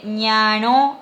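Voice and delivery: "ñano" drawn out with a nasal O; nasal final O. Shown as a demonstration. Teacher shows the Guarani word for fierce, nasal O. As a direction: let the last O of "ñano" ring through the nose. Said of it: "aparece la O nasal".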